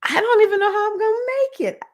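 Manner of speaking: high, loud, rushed wail of despair; mock panic, voice shooting up; overwhelmed wail. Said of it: "I was just like".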